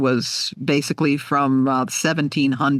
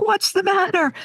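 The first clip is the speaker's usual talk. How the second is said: husband's question. Retold or imitated. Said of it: "He's like".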